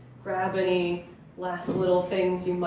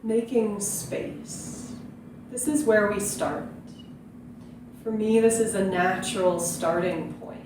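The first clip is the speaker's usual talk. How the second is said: calm meditation teacher with long, unhurried pauses; guided meditation. Real, not acted. Yoga teacher inviting viewers to breathe into the belly, calm guiding voice. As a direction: gently guide listeners into stillness and breath.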